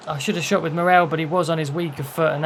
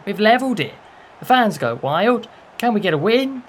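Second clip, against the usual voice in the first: excited cheer; 6 semitones higher, 5 dB louder than usual. Real, not acted. Celebrating the equaliser.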